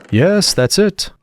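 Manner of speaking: slow, high, sighing. A narrator's reading. Hatter to Alice, sighing over endless tea time. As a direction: say it on a weary sigh. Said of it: "with a sigh".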